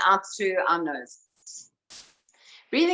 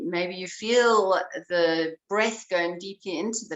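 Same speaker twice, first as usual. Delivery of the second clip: calm, unhurried guiding voice; breath coach easing the class into awareness; guided breathing. Acted. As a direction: lead them gently into noticing the breath.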